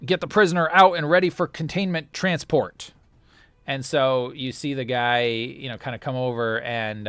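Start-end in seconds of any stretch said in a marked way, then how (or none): 0.1-2.9 fast, louder clipped radio call; radio comm message. Acted. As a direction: read it like a comm unit transmission.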